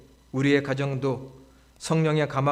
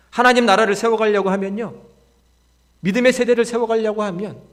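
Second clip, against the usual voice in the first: raised, loud pulpit voice; emphatic sermon delivery; forceful preaching; 6 semitones higher, 7 dB louder than usual. Real, not acted. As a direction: press the point to the congregation.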